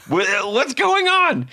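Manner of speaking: high, slow, bewildered cry; stymied. Retold or imitated. Handed a guitar onstage, high slow bewildered wail. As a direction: drag it out, totally lost. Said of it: "I was just stymied".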